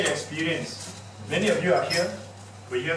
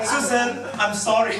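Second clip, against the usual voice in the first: laughing; 7 semitones higher, 5 dB louder, slower than usual. Acted. Joking role-play apology, laughing.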